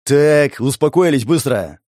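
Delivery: loud, firm order to calm down; stern command. Acted. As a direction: break up a quarrel with authority. Older man breaks up a quarrel.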